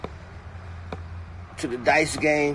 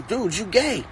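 mock blunt announcement; 6 semitones higher than usual. Imitating what a rapper should say.

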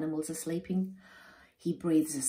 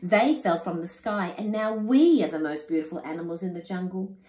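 a touch louder, mildly angry; growl; 5 dB louder than usual. Acted. Animals claiming the markings, mild growling voice. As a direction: stake the claim with a light growl. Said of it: "growl the other animals".

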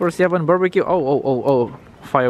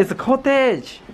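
excited anime fan; 10 semitones higher, slower than usual. Acted. Touring cottage in put-on voice.

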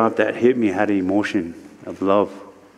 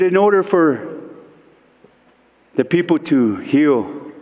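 solemn spirit voice. Retold or imitated. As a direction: deliver the spirit's teaching with weight and long pauses. Spirit voice gives solemn teaching.

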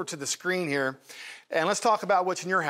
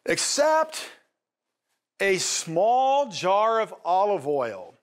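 hesitant admission; 4 semitones higher, much slower than usual. Retold or imitated. Widow's reluctant admission.

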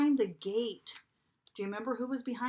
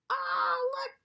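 surprised; 13 semitones higher than usual. Acted. Surprise discovery in picture book.

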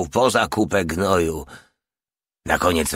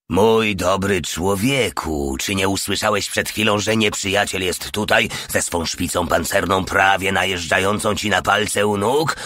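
icy calm. Acted. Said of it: "ze spokojem, od którego robiło się zimno".

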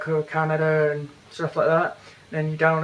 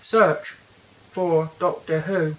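deliberate voice command; slower than usual. Real, not acted. Reviewer retrying a search command on his phone, slow and deliberate. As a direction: spell it out for the machine.

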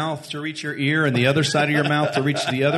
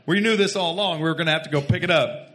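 selling it. Retold or imitated. Selling the food pickup to his brother, mock assurance. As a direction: play it as planned all along. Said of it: "start selling it to my brother".

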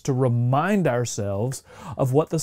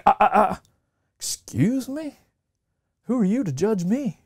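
mock offended; 7 semitones higher than usual. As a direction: act outraged at a compliment. Offended reply to the compliment.

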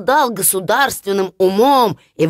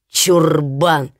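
scornful brothers; 5 semitones lower than usual. Acted.

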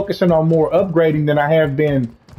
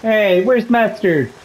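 slow, drawn-out, raised pitch; drawn-out meme quote; 5 semitones higher, much slower than usual. Retold or imitated. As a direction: stretch each word like a catchphrase. Repeating a meme catchphrase.

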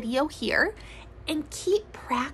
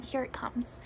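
whispered build-up; hushed whisper before the demo; 7 dB quieter than usual. Shown as a demonstration. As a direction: whisper to keep them quiet.

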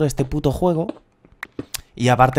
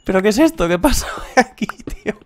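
excited disbelief; 9 semitones higher than usual. Real, not acted. Finds a huge diamond vein.

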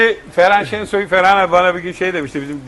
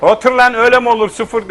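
raised, mock-stern Muğla-accented scolding; Muğla-accented teacher; 5 semitones higher, 4 dB louder than usual. Teacher failing the Kurdish pupil, mock stern in Muğla accent. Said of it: "Öğretmen Muğlalı bizim".

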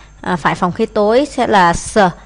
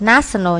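"national" with the opening syllable emphasized; first-syllable stress. Shown as a demonstration. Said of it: "nhấn âm một".

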